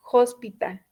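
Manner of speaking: "hospital" with its H like a Spanish jota. Shown as a demonstration. Teacher contrasting hospital with hour, sounded H. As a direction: start "hospital" on a J-like rasped H. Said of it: "es como si fuera la J".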